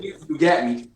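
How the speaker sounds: "got" said as "gat", mimicking the friend; imitated local vowel. Quoting the friend back at him, imitated accent on "got". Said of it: "Yeah, you said".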